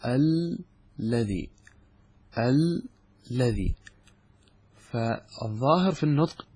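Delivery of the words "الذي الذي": الذي stretched slowly, doubled lam held long; drawn-out alladhi. Shown as a demonstration. Teacher drawing out الذي so students hear two lams. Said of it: "نحن ماذا نقول؟".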